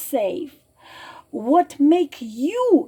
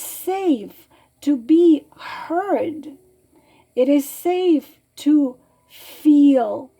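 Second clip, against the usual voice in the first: higher, slow, tender voice fighting off tears; higher and louder, a slow tearful tenderness; holding back tears; 3 semitones higher, 5 dB louder than usual. Real, not acted. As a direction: say it with love while you try not to cry. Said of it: "trying to hold myself together".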